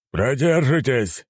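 slow, high-pitched barked command; barking. A narrator's reading. Admiral cutting into the conversation, barking. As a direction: bark it out, stretching the word. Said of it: "рявкнул Нахимов".

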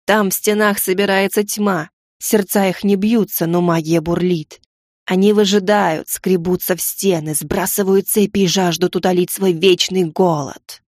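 slow, eerie gargoyle voice; creepy stone guardian, slow. Acted. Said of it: "жутким голосом произнесла горгулья".

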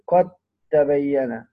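"قد تبين" with the د merged into a doubled ت; idgham of dal into ta. Shown as a demonstration. Teacher giving an example of the merging rule, "قد تبين" with held tt. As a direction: say "قد تبين" as qat-tabayyana, holding the double t. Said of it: "وتدغم في التاء. أمثلة على ذلك".

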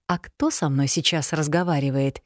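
usual speaking voice

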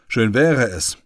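usual speaking voice

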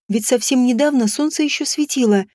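ordinary delivery

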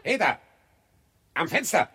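high-pitched hail; calling out. Acted. Corpse carter hailing a householder at the window, calling out. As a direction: call up to someone at a distance.

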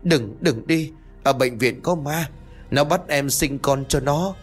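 high, frantic hiding plea; terrified begging. Acted. Ngọc hiding from the hospital, terrified. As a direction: beg from under the bed. Chui vào gầm giường mà trốn.

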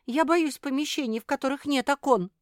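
high, loud scared plea; frightened plea. A narrator's reading. Sophie pleads not to be locked in, high and scared. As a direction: beg in fear of the dark closet. Sophie afraid of windowless closet.

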